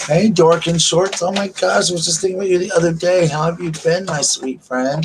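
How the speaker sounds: excited greeting. Real, not acted. Greeting a favourite viewer on her livestream, delighted and high.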